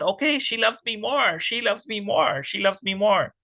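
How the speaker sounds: high, dreamy lovestruck chant; smitten demon. Acted. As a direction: repeat it like a smitten fool.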